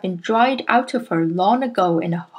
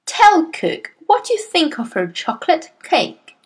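high, emphatic order; headmistress's imperious, swooping demand; boomed command; 9 semitones higher than usual. A narrator's reading. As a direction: order the boy to speak up. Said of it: "the Trunchbull boomed".

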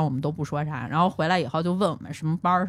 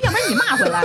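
laughing, higher mock offer to be scolded back; 11 semitones higher, 4 dB louder than usual. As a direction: laugh while parroting the cheeky offer. Mocking the boss's fake apology.

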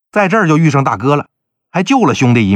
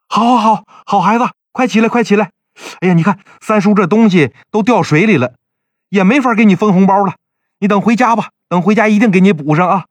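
put-on higher-pitched, pleased uncle greeting a child; apologetic doting uncle, pitched up; delighted fussing uncle; 5 semitones higher than usual. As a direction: fuss happily over your young nephew. Uncle fussing over newly met nephew.

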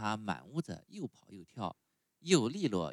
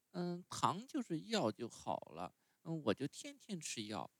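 put-on much higher, whiny little boy; puppet boy voice; 8 semitones higher, 4 dB quieter than usual. A narrator's reading. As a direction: sulk like a spoiled child refusing medicine. Pinocchio voiced in story.

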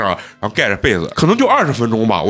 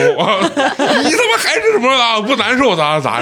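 much higher, slow, laughing mock scold; imitating mom scolding dad, laughing; 12 semitones higher, slower than usual. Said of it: "骂了，说我爸五分钟".

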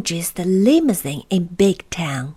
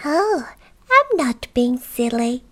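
high little goblin voice; 5 semitones higher than usual. Acted. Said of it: "said the Goblin".

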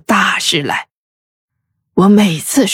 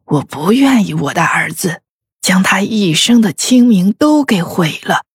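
低沉. A narrator's reading. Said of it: "她低沉地说道". (低沉哀伤地说)

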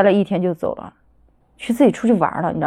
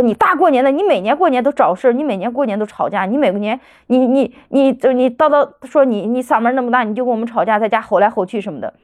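retold maternal scolding, pitched up at first; imitated scolding; 3 semitones higher than usual. Daughter replays mother's New Year telling-off, scolding. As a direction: pile up accusations as an imitated mother. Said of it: "怎么难听怎么说的那种".

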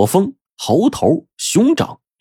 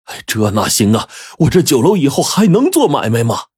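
distressed protest, pitch climbing; can't-take-it-anymore wail, mildly acted; exasperated; 5 semitones higher than usual. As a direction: plead that this cannot go on. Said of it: "掌柜的受不了了".

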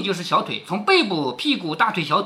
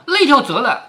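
understated cry of pain, louder; mildly acted cry from a beaten man; pained yelling; 5 semitones higher, 5 dB louder than usual. A narrator's reading. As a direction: call it out as a narrated yell. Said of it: "薛蟠便乱滚乱叫".

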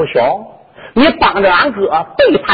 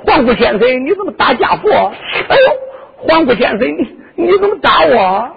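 mock wailing; 4 semitones higher than usual. Clown cries he was beaten.

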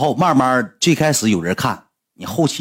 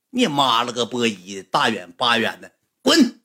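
imitated cursing; 2 semitones lower, 4 dB quieter than usual. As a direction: imitate someone cursing, pitch leaping on the last word. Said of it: "搁直播间骂我半个多小时".

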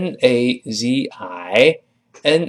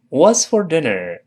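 slower careful repeat; slow model read; 5 semitones higher, slower than usual. Shown as a demonstration. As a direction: spell it out slowly for learners. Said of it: "我们可以直接说". (放慢示范读)

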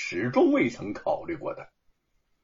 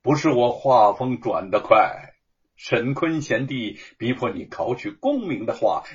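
meaningful; 3 dB louder than usual. Acted. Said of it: "意味深长地说".

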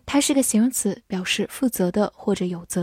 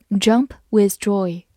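slow repeat; slower than usual. Shown as a demonstration.

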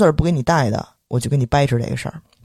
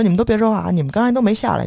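mock order to onlookers, pitched up; higher, insistent retold telling-off; retold bossy shushing; 6 semitones higher than usual. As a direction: imitate someone silencing a crowd. Bystanders being shushed in retold quarrel.

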